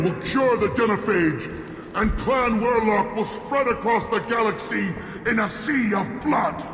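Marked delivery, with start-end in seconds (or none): 1.9-6.6 shouting. Acted. Krogan chief ranting at enemies.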